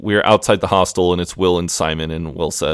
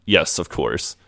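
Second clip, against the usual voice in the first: acted passive-aggressive agreement; quoted politeness, lightly barbed; 3 semitones lower, slower than usual. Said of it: "It's a very passive-aggressive".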